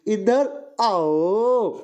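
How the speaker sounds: slow, gentle, coaxing come-here; sweet coaxing call. Shown as a demonstration. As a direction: call someone over sweetly and slowly. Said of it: "मैंने उसे एक मीठी सी आवाज दी".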